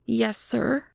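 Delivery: high, eager feminine reply; woman's voice. A narrator's reading. Woman answering the detective's question, high and eager.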